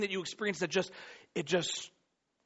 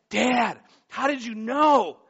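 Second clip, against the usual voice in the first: put-on kid asking; 6 semitones higher, 8 dB louder, slower than usual. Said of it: "he's like".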